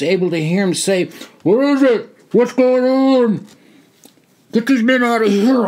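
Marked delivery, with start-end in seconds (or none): 1.4-3.5 high, loud bewildered cry; alarmed shout. Acted. Colonel running up confused, alarmed shout. 4.5-5.7 higher, louder commanding yell; screamed. Acted. Soldier yelling orders at the colonel, loud. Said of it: "I screamed".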